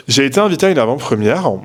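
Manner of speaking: unintended Parisian accent on "avant-première". Real, not acted. Vlogger telling of a premiere invite, slipping into Parisian accent. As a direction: let a Parisian accent slip out, trailing vowel on "première". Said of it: "C'est quoi cet accent parisien de grosse merde".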